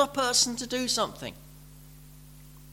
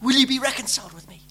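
pleading God; 10 dB louder than usual. Retold or imitated. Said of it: "he says to them".

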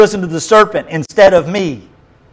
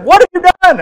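booming God; 7 dB louder, faster than usual. Acted. God confronting the serpent, acted.

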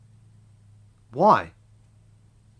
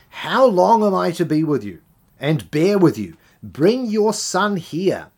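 anguished cry; 8 semitones higher, 7 dB louder than usual. Acted. Preacher voicing Jesus crying out to the crowd, loud and anguished. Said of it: "And Jesus cries out".

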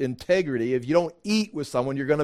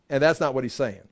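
usual speaking voice

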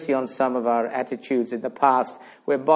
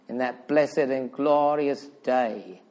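exalted preaching; 2 semitones higher than usual. Real, not acted. Preacher proclaiming the blessed and glorious day, exalted preaching. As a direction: build to a soaring peak and come down gently.

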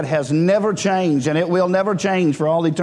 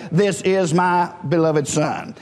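slow, measured pronouncement; deliberate quote of God speaking; slower than usual. Retold or imitated. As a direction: say it word by word, audibly declared. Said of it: "spoke verbally and vocally where you could hear him say".

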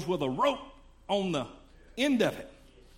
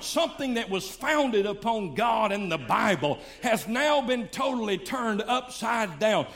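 preaching. Acted. Preaching building to the point.

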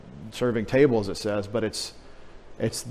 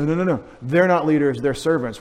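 emphatic rebuttal; 3 semitones higher, 5 dB louder than usual. Retold or imitated. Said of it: "I say".

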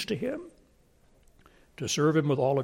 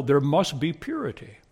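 ordinary talk, nothing marked

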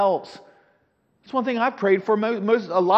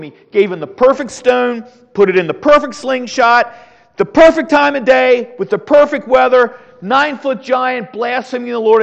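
building preaching emphasis; 4 semitones higher, 5 dB louder than usual. Real, not acted. Preacher building up Goliath story.

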